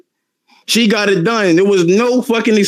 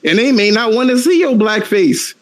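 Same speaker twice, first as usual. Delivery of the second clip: mock calm mother. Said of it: "She was like".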